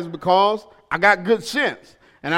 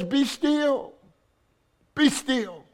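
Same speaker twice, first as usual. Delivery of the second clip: sudden soft, spacious stillness; hushed command; 6 semitones higher, 5 dB quieter, much slower than usual. Retold or imitated. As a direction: let the voice fall quiet after the climax. Voices God's command, hushed after climax.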